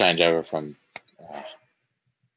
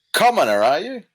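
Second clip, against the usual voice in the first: high, haughty question; hammed-up snooty greeting; condescending; 12 semitones higher, 6 dB louder than usual. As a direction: look down on them, voice lifted. Condescending character greets stranger.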